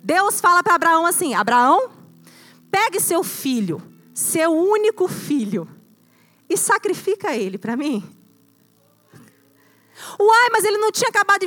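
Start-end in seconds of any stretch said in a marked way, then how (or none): 1.3-8.0 slow, solemn divine command; voice of God. Acted. Pastor voicing God telling Abraham to sacrifice his son, slow and solemn. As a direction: speak as God commanding Abraham, measured and grave.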